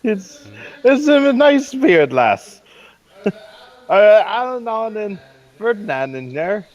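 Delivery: high, loud answer through a door; calling out. Acted. Visitor announcing himself at the door, calling out. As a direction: call up to whoever is inside.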